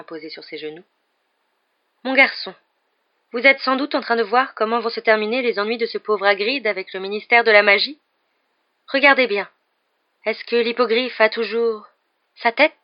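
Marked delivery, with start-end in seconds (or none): 2.0-12.7 high, louder divination teacher; probing seer. A narrator's reading. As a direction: lead the pupil toward a grisly vision.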